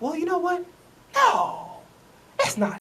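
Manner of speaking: high, squeaky mock voice of a clueless organization; mocking the front office. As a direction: parody the team bosses brushing it off. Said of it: "the organization's like".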